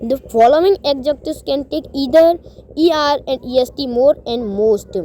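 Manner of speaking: reading the rule at half speed, word by word; slow rule reading. Acted. Teacher reading a grammar rule to students, slow dictation pace. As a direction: read it out slowly like dictation.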